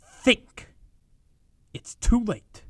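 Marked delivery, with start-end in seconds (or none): 0.0-0.7 angry bark. Acted. Berating careless partner.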